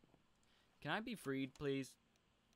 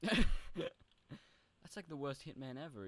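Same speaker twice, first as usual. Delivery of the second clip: slow, much louder, laughing at the hitman; laughing mockery; 7 semitones higher, 9 dB louder, much slower than usual. Real, not acted. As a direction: drag it out, cracking up. Mocks a dying hitman.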